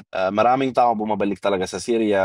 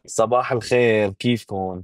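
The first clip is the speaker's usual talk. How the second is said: Syrian Arabic greeting; 2 semitones lower, slower than usual. Shown as a demonstration. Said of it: "Kunyari, paano sabihan".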